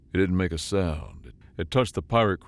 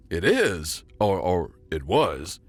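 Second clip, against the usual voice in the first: panicked. Acted. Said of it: "his voice rising in panic".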